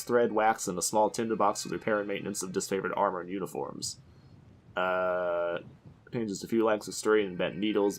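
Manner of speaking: even, brisk read of game lore; reading aloud. Real, not acted. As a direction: read the item text straight through. Reads item description aloud.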